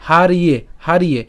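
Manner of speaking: হারিয়ে in measured parts, har-iye; deliberate repeated demo of হারিয়ে; ya said as iya. Shown as a demonstration. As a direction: sound the r, then "iye" in হারিয়ে. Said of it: "ইয় হবে, ঠিক আছে?".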